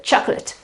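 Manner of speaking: "chocolate" as short "CHOK-lut"; schwa ending. Shown as a demonstration. Teacher drills the noun, "CHOK-lut". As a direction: stress the start of "chocolate", weak ending. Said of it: "is the accent".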